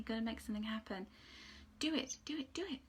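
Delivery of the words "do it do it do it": high, breathy whispered urging of an archangel; angel whispering. Acted. Reader voicing Archangel Zadkiel's urging, whispered. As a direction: hiss it like a secret nudge. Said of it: "'cause that's how he talks".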